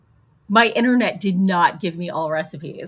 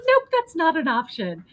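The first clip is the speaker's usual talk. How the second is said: snippy website voice; 9 semitones higher than usual. Retold or imitated. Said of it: "And it's like".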